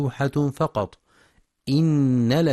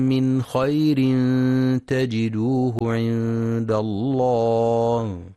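Quranic recitation; slower than usual. Acted. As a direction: chant the verse with long vowels. (تلاوة مرتلة بصوت مرتفع)

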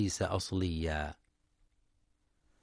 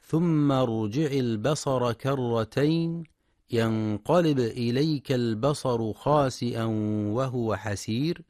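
Quran recitation. Acted. Teacher recites a verse for listeners, measured chant.

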